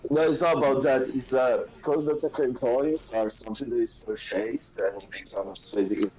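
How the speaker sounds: crackling phone line; muffled, like talking underwater; bad phone mic. Real, not acted. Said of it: "it sounds like you're underwater".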